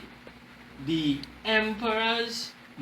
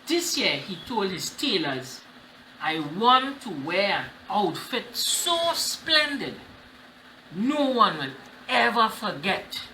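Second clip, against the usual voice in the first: story reading. Acted. Reads storybook to class.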